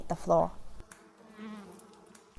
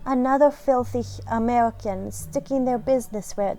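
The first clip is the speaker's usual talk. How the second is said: fancy snooty cat. Acted. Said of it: "so she's just fancy".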